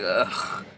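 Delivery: low, quiet "ugh"; imitated disgusted groan. Marcus just sitting there like, quiet imitated groan. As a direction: groan softly under your breath.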